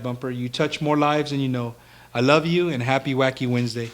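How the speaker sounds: echoing room sound. Real, not acted. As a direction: voice bouncing off the walls. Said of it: "Sorry about the echoing".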